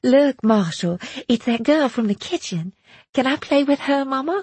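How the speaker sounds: put-on high-pitched excited child's squeal; squealing little girl. A narrator's reading. Little Sally asking Mama to play, squealing. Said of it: "little Sally squealed".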